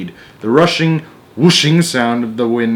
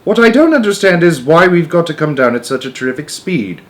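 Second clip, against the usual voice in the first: loud, raised question; yelled above the noise; 6 semitones higher, 4 dB louder than usual. A narrator's reading. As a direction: keep shouting over the wind. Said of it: "he yelled above the noise".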